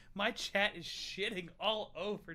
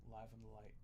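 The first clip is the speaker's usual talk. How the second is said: quiet dreamy murmur; 6 semitones lower, 12 dB quieter, faster than usual. Pretend. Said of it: "You sound like you're high as balls".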